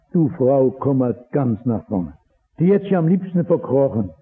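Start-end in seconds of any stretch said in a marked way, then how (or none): 0.1-2.1 gentle call. Acted. Jesus calling the bent woman forward, gently and lower. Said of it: "Da sagt er".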